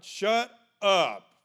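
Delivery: loud, harsh shout from the crowd; angry crowd. Acted. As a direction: bark them into silence. Crowd silencing the blind men.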